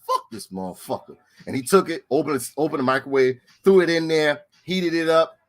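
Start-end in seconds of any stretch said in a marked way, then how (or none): 0.1-1.2 low, much softer mutter; deep quiet mock grumble; mimicking Fred. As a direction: grumble it under the breath. Fred voiced in retold story.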